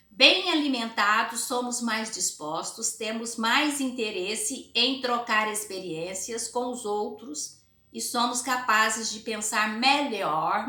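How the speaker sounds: slow, emphatic teacher read-aloud; measured classroom dictation pace, key words leaned on. Acted. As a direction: read the passage slowly for the class.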